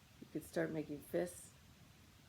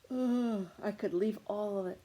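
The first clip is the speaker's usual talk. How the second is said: acted empowered anger; 4 semitones higher, 6 dB louder than usual. Models anger giving power to leave.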